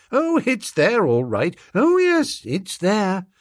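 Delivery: high, bright insistent gentleman; eager toff. Acted. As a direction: insist cheerfully like a young aristocrat.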